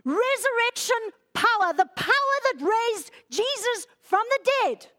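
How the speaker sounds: high, impassioned preaching; very emotional. Real, not acted. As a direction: proclaim it with swelling emotion. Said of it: "I'm getting very emotional".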